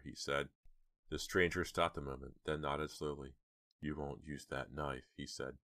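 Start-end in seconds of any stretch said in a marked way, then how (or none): 3.8-5.1 menacing. Acted. Intruder calm menace.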